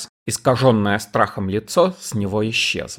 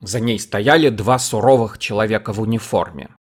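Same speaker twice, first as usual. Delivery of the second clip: usual speaking voice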